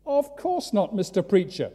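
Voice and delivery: mock crowd reply; crowd answer. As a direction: answer like an eager bystander.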